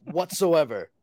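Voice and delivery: lightly voiced cartoon caveman duck; a hint of the little DuckTales caveman duck. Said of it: "That's the voice of the little caveman duck from DuckTales".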